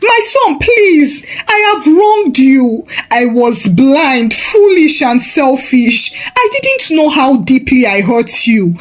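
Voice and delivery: high, sobbing shouts of please; mother on her knees crying to her son. Acted. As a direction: wail the begging through tears. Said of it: "began to cry".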